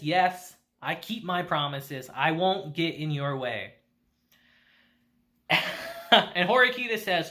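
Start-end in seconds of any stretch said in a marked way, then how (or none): 0.0-3.7 lower, grudging acted reply; reluctant. Kushida concedes to Horikita that she will keep away, reluctantly. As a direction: give in grudgingly, voice dropped. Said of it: "Kushida reluctantly says".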